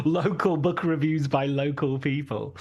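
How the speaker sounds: laughing through a mock catchphrase; amused parody, laughing on the words; laughing League of Gentlemen quip. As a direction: chuckle while parodying a local-shop line. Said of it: "So I'm beginning to sound League of Gentlemanly now".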